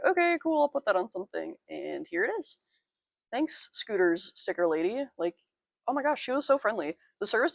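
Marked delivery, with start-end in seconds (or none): 0.1-1.6 mock surprised okay. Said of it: "and I was like".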